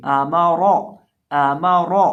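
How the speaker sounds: आमारा with a full, heavy रा. Shown as a demonstration. Teacher showing the correct heavy ra in आमारा. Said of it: "रॉ को मोटा करके पढ़ेंगे".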